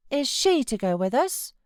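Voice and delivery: put-on a fretful child pleading to stay; sickly child. A narrator's reading. Boy refusing to leave his uncle, high fretful whine. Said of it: "he demanded".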